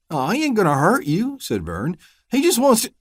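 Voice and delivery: high, eager pleading tone; smooth it over nervously; anxious reassurance. Acted. Vernon assuring the deputy the dog is harmless.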